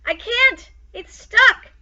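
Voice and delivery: high, loud panicked driver's shout. A narrator's reading. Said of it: "the trolley driver shouted".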